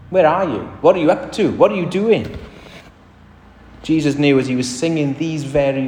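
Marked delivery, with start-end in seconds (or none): 0.1-2.4 taunting voice. Retold or imitated. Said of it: "What are they saying to him?".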